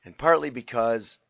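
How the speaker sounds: lost voice, hoarse and rough; talking through a hoarse, worn-out throat. Real, not acted. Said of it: "I've kinda lost my voice".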